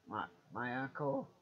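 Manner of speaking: brief unintended crack in the voice. Real, not acted. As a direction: voice cracking mid-phrase. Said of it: "That voice crack".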